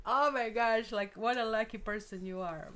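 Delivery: loud mock-amazed outburst; hammed-up excited exclamation, starting very loud; imitated amazement. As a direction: burst out, imitating an astonished viewer. Voicing a viewer's amazed reaction.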